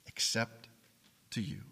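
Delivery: breathy whispered repeat; whispered echo. Acted. Preacher echoing David's plea to the Lord, whispered. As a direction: whisper it again, barely there.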